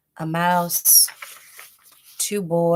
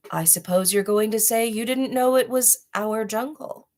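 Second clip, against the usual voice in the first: menacing tiger; 4 semitones higher than usual. Acted. Tiger taunts the boy.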